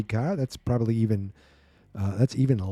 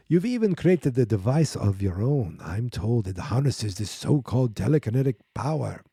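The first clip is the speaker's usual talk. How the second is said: lightly voiced vampire count; a hint of a hammy vampire accent; Dracula. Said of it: "I'm gonna do this like Dracula almost".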